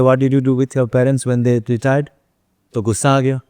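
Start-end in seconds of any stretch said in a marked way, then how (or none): 0.0-2.1 slow, pointed comeback; slow retort to the visitor's question. Retold or imitated. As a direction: let each word land as a rebuke. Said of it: "तो मैंने बोल दिया".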